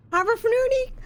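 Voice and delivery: gibberish Sims language; fake Simlish. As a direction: babble in mock Simlish. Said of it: "Ich kann jetzt nicht auf Simlish reden".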